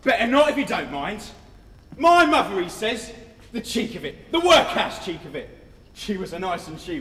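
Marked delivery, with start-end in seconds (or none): 0.0-1.2 sneering repeat of his threat; taunting the new boy, loud and sneering; mocking echo. Mocking the boy's words. 2.0-2.6 loud scornful mimic; sneering at the new boy's outburst; mocking echo.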